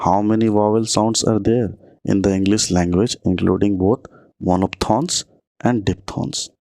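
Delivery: slow, deliberate exam-question read; reading the question aloud. Shown as a demonstration. Teacher dictating a quiz question to students, slowly.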